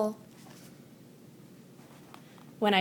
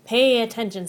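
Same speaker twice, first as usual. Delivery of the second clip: sharp snap; 6 dB louder than usual. Acted. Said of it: "snaps Maestro".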